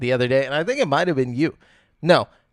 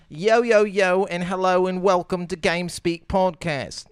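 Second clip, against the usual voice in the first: practised podcast host opener; podcast intro; 4 dB quieter than usual. Acted. Host welcomes listeners and lists where to subscribe, podcast intro. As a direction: roll through the show plugs.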